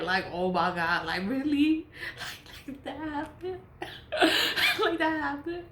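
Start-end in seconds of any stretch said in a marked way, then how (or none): 2.7-3.6 mock surprise. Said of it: "so I can laugh". 4.8-5.6 mock surprise. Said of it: "so I can laugh".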